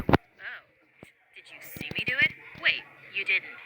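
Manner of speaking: low, smug mock-menacing bully voice. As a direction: sneer it, playing the tough guy.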